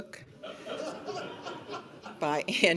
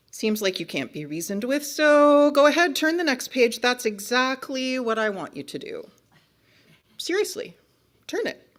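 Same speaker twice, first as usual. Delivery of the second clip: high, over-encouraging book character; feigned nonchalance; 7 semitones higher, 11 dB louder than usual. Acted. Book character tricking reader to turn the page, falsely agreeable. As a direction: coax with obvious false permission.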